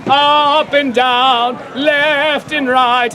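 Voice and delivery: very slow, solemn priestly intoning; hammed-up slow benediction; mock blessing. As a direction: bless the crowd like a grave old friar. Friar blessing with gestures.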